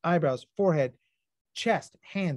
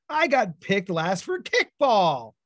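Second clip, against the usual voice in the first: put-on upset kid; 4 semitones higher, 4 dB louder, slower than usual. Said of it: "kid's answer".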